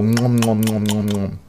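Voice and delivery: nom nom munching sound; eating noises. Shown as a demonstration. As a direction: chomp it like eating. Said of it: "Dann solche Sachen".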